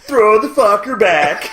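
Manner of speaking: slow, loud punchline; hammed-up catchphrase. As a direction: belt the punchline slowly.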